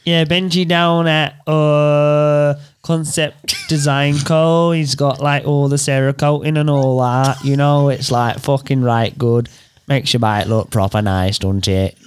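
put-on English accent with drawn vowels; Pommy accent. Host's Pom voice for a bike shop plug, English accent. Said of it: "you're Pom".

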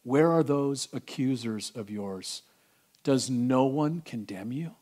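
soft, slow, gentle question; Jesus gently asking the woman; tender. Acted. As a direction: speak grace to her quietly. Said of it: "it's so tender".

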